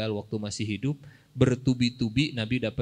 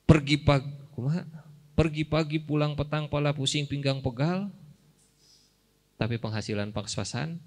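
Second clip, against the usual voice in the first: boastful Korun voice. Retold or imitated. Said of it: "Kata Korun".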